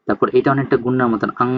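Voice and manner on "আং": "আং" held on a nasal ng; demonstrated NG sound. Shown as a demonstration. Teacher showing a velar consonant, "আং" ending in ng. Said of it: "এরকম একটা উচ্চারণ করবে".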